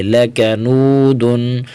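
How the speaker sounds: لکنودن، with a slight break on the کاف; break at kaf. Shown as a demonstration. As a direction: pause briefly at the کاف of لکنودن،. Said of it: "کاف کو break کریں گے". (لکنودن، میں کاف پر ہلکا وقفہ)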